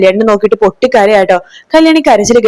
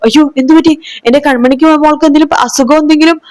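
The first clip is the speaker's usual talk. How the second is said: put-on higher, anxious questions about the little girl; a mother's sudden worry, pitched up; worried alarm; 6 semitones higher than usual. Sarayu hears she must go home, asks in high alarm. Sarayu fears for her daughter.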